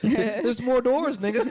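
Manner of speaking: stretched, high-pitched comic outburst; excited revelation. Acted. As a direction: announce it loudly like a wild discovery. Acting out discovering more doors.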